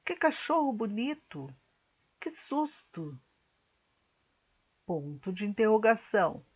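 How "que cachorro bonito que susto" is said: exclamatory reading. Shown as a demonstration. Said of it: "Então, como exemplo".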